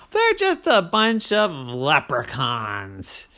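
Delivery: lightly voiced rival pirate, slow and mocking; taunting pirate. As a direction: sneer it out slowly.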